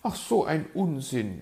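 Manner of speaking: dismissive bird lady. A narrator's reading. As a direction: brush it off as a piqued magpie. Magpie dismisses fox's idea.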